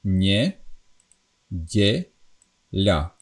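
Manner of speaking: nie, die, la with soft palatal consonants; soft Slovak syllables. Shown as a demonstration. Teacher showing learners softened Slovak syllables, soft palatal consonants. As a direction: say nie, die, la softly palatalised, each on its own. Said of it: "So this would be pronounced".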